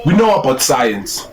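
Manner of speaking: put-on line delivered in a Nigerian accent. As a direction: imitate a Nigerian pickup line. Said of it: "do it in the Nigerian accent".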